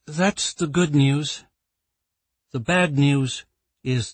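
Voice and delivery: brief the board wearily; weary executive. Acted. Claire gives the bad news.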